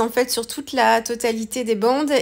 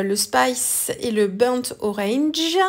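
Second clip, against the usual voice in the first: French accent on English; slower than usual. Real, not acted. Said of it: "Mon accent toujours".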